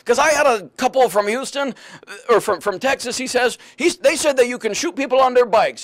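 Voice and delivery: lightly imitated German accent. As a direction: retell it as a German cab driver. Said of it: "stop doing your German accent".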